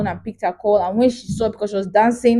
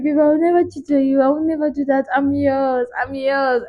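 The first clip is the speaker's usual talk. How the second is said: sweet and loving; 5 semitones higher, 4 dB quieter than usual. Retold or imitated. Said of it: "She was like".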